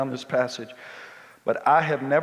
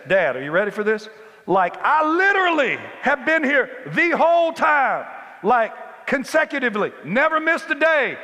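much higher and louder, indignant shouting; angry older brother complaining; 12 semitones higher, 6 dB louder than usual. Retold or imitated. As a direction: yell the grievance like a wronged son. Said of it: "And he says".

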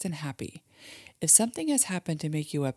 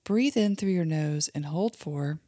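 put-on guided imagery for kids; 2 semitones higher than usual. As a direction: lead a child gently through a calm daydream. Mom leads kids' guided imagery.

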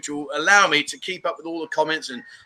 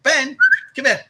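raised, higher call to the dog; 10 semitones higher, 6 dB louder than usual. Real, not acted. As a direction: call Ben over from across the garden. Calling dog again.

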